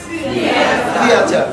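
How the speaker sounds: Theater and Authority called out with a strong th; drilled loud. Shown as a demonstration. Teacher drilling the class, calling the words out loud. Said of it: "Those of you pronounce it wrongly".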